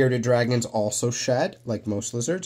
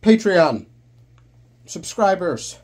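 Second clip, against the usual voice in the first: excited call-out; 7 semitones higher, 7 dB louder, slower than usual. Real, not acted. Cheery shout-out to the audience.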